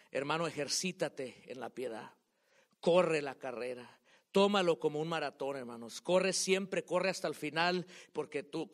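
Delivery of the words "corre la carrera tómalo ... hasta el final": loud exhortation. Real, not acted. Exhorting congregation to keep running.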